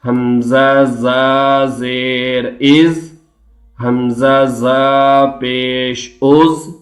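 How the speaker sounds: slow drawn-out chant for students to repeat; slow chanting teacher; recitation drill. Shown as a demonstration. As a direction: model each syllable slowly. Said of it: "recitation drill".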